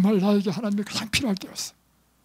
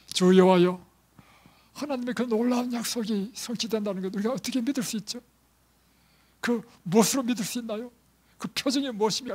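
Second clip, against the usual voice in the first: higher, pleading voice of Abraham; Abraham asking the Lord for a sign, pleading; pleading question; 5 semitones higher, 3 dB louder than usual. Acted. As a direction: beg God for a sign. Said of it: "이렇게 물을 거 아니에요".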